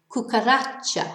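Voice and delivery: cuca-RA-cha, weight on RA; natural penultimate stress. Shown as a demonstration. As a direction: say cucaracha stressing the last but one syllable. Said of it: "natural stress on the last but one syllable".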